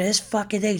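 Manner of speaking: high-pitched, contained imitation of cursing; retold exasperated swearing; mock cursing. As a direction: mimic an irate traveler without shouting. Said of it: "and she's cursing".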